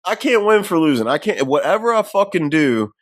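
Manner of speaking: mock frustration, pitch falling as it goes; retold pissed-off rant. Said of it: "Nazar's pissed off 'cause he's like".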